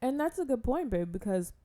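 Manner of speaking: talking around a piece of ice; words muffled by ice in the mouth. Real, not acted. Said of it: "I have a piece of ice in my mouth".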